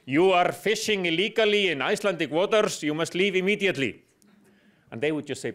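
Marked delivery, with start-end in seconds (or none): 0.0-4.0 put-on raised-voice warning in an Icelandic accent; louder, slightly hammed-up Icelandic accent; strong Icelandic accent. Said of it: "yell at the ... say in strong Icelandic accent".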